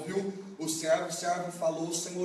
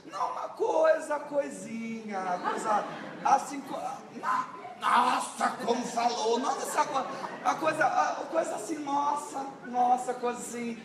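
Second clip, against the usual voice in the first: evasive stammering; 6 semitones higher than usual. Acted. Samuel evading his leader.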